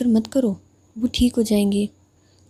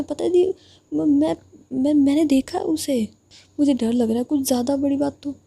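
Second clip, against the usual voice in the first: frightened stammer; 4 semitones higher than usual. Acted. Younger sister frightened, confiding in her elder sister. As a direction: stumble over the words, scared for her friend.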